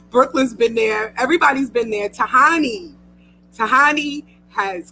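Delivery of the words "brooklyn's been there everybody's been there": teary, voice catching; holding back tears; tearful thanks to friends; choked up. Real, not acted. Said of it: "I'm probably gonna cry".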